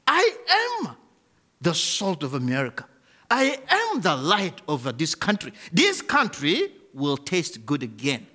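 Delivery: rising, ringing declaration of faith; fervent confession. Acted. Preacher rallies congregation, fervent and ringing. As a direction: proclaim it with growing conviction.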